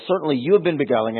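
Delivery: beguiling leaned on, fast read; stress on beguiling. Retold or imitated. Preacher reads Jeremiah, stressing beguiling. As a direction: push the word beguiling hard. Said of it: "I emphasize beguiling".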